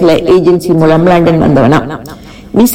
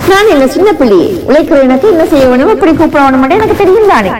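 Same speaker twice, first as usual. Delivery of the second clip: a touch higher, mildly raised retort; 5 semitones higher than usual. A narrator's reading. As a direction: push back a little, higher in pitch. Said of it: "பதிலுக்கு நானும் கத்தினேன்". (லேசாக உயர்ந்த குரலில் பதிலடி)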